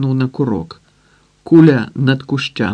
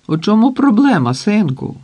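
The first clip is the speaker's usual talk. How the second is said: доброзичливо; 8 semitones higher, 3 dB louder than usual. A narrator's reading. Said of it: "гукає доброзичливо".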